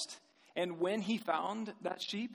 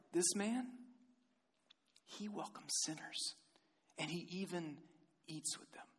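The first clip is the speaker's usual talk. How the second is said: muttering; 7 dB quieter than usual. Acted. Pharisees to one another about Jesus, muttering. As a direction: mutter it softly, fading almost to nothing.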